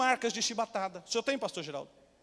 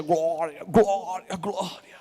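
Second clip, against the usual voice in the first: lower, muffled praise fading off; praying pastor; 5 semitones lower, much slower than usual. Retold or imitated. Pastor with a gun in his mouth, fading praise. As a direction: keep praising, the last one dying away.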